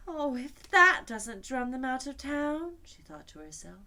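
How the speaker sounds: high, loud, slow exclamation; overwhelmed by noise; Alice's dismayed thought. A narrator's reading. Alice thinking amid deafening drums, high and slow.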